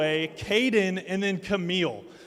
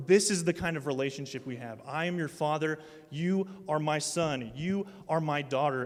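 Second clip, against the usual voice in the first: tender father voice; 4 semitones lower, 4 dB quieter than usual. Retold or imitated. Voicing God as father.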